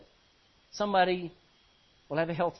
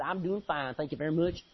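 lightly put-on Galilean hillbilly accent; 4 semitones lower than usual. Peter answering a stranger by the fire, mock hillbilly accent. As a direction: answer like a country hillbilly, slightly lower. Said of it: "he says with a Galilean hillbilly accent".

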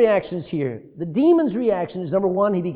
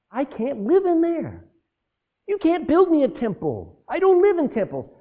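voicing God; 8 semitones higher than usual. Preacher voicing God's words.

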